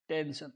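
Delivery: टेंशन said with sh: ten-shun; shown pronunciation. Shown as a demonstration. Teacher showing students the word, sh sound in टेंशन. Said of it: "तो उसका उच्चारण श से करेंगे".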